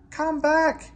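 loud high shout after the engine; loud, high desperate yell. A narrator's reading. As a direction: call him back in alarm. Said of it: "yelled the driver".

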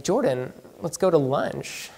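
soft, hesitant imitation of a friend; tentative suggestion. Friend inviting him to lunch, fishing for his race, tentatively mimicked. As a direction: float it quietly with long, careful pauses.

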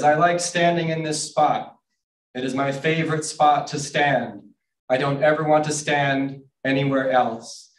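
half-shouted character read; mildly shouted dialogue. Acted. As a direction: declare it as a lightly shouted picture-book line. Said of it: "so I just kind of shout them".

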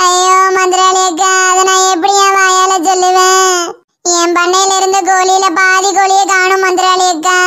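a hammed-up crying complaint; wailing lament. Godavari wails to the older woman about her stolen hens. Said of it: "ஏன்டி இப்படி அழுதுகிட்டு இருக்க?".

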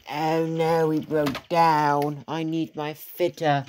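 drawn-out mock dismay; slow, hammed-up plea for help; broken-down engine. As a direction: play an engine lamenting a breakdown, slowly.

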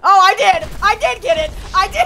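high, delighted exclamation; excited realisation. Real, not acted. Player finding they got the pickup, high excited exclamation. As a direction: pitch jumps up in sudden glee.

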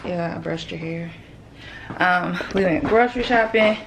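breathless and quiet; out of breath, barely getting words out. Real, not acted. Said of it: "Sorry, y'all, I'm out of breath".

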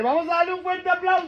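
high-pitched call for applause; party clown calling for applause; rousing announcer call. Real, not acted. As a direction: whip up the crowd, drawing out the last word. Clown rouses the party audience.

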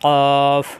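loud, thick "কফ" with a held rounded vowel; "কফ" from the tongue root, full and level; heavy articulation. Shown as a demonstration. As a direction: press back on the palate for a heavy "কফ". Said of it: "মোটা করে উচ্চারণ".

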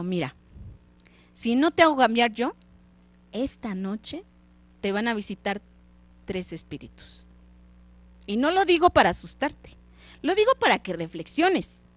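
fantasma que regaña y advierte, apenas actuado; fantasma del socio. Acted. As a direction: suplica al avaro que cambie, con voz algo más fuerte. (el fantasma le reprocha a Scrooge, voz levemente dramática)

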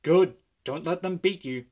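loud, encouraging voice; encouraging engine. Acted. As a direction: cheer him on. Edward encouraging.

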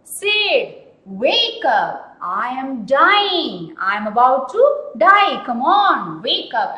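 hammed-up dying boy calling out; Tom crying aloud. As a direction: wail it to wake your brother. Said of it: "he cried aloud".

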